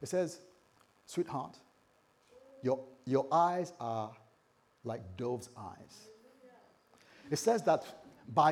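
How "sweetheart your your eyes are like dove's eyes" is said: slow, tender reading of the verse; slightly dramatic. Shown as a demonstration. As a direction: read it like a love line, slowly. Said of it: "You know, slightly dramatic".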